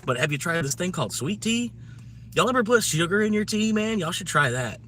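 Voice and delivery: playful Southern ribbing; mock incredulous. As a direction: tease the Brits about their tea. Teasing British about sweet tea.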